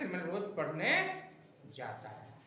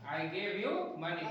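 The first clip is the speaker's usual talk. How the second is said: slow dictation; much slower than usual. Shown as a demonstration. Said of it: "ये लिखा गया".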